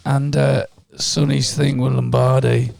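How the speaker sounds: hoarse voice. Real, not acted. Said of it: "my sexy voice".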